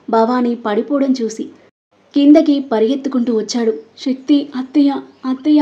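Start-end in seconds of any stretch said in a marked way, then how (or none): 4.0-5.6 a hint of sobbing panic; crying out. A narrator's reading. Daughter-in-law crying over her collapsed mother-in-law, tearful. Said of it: "అని సంయుక్త ఏడుస్తూ".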